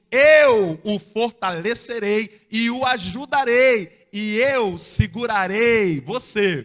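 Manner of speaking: loud climactic sermon proclamation; preaching at full force. Acted. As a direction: hammer each promise of the verse home. Reads verse at full force.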